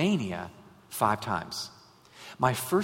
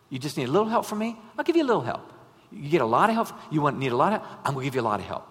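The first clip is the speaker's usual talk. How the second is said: animated promise from God; God's promise; faster than usual. Retold or imitated. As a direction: build eagerly on a lot of help. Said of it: "God's saying to us".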